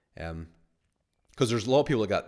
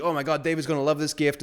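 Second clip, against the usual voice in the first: imitating excited teen; 7 semitones higher, 4 dB louder than usual.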